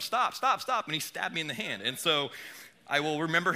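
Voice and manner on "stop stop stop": retold shout. Telling his friend to stop, half-shouted. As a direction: stop shouted higher and louder. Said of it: "I'm telling him".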